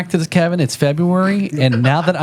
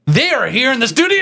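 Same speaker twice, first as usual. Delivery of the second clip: much higher thrilled reveal; excited announcement; 13 semitones higher than usual. Acted. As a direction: announce them like big news.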